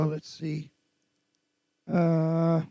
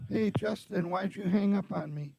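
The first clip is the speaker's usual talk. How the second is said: Patty voice; 3 semitones higher than usual. Acted. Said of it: "dial as Patty".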